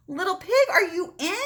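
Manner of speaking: high sing-song call to the pig; calling out sweetly. Acted. Wolf calls sweetly through the door, high and sing-song.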